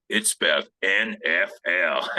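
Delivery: slow, lightly imitated Louisiana coach; Ed Orgeron. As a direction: spell it out slowly with a touch of Louisiana. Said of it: "he has this Louisiana voice".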